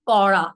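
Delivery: "কড়া" with a firm curled-tongue flap; pressed retroflex r. Shown as a demonstration. Teacher giving the strict-teacher word, pressed r. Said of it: "গাঢ় করে প্রেশারটা দিয়ে".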